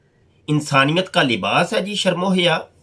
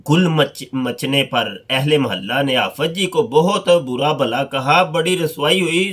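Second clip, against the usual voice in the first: story read aloud. Acted. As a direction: read the anecdote out with measured pauses. Reads a story aloud from a book. (ٹھہر ٹھہر کر قصہ پڑھ کر سنانا)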